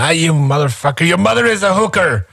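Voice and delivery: mock insult. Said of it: "I can say to someone".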